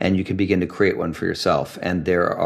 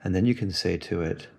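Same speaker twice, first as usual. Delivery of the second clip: soft, unhurried guiding voice; calm meditation guidance; guided meditation; 2 semitones lower, 4 dB quieter than usual. Acted. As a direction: gently lead a listener into the feeling, leaving long pauses.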